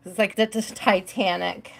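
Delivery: a secret little whispered joke; whispered aside. Real, not acted. Streamer joking to viewers about the door, whispered. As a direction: whisper it under your breath.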